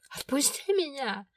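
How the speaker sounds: yelled. A narrator's reading. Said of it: "заорала на него".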